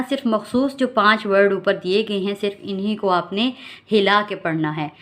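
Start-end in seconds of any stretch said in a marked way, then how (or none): none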